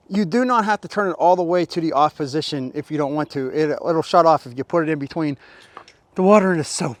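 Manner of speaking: talking while out of breath; breathless from scrubbing the truck. Real, not acted. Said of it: "Why am I so out of breath right now?".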